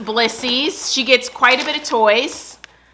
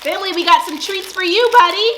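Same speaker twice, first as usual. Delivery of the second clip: pet talk; 8 semitones higher, 4 dB louder than usual. Real, not acted. Offering treats to dog Bentley.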